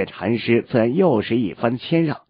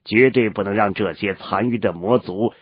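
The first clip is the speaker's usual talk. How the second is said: wise mentor. Acted. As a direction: speak as a measured old sage. Elder urges pursuit of enemy.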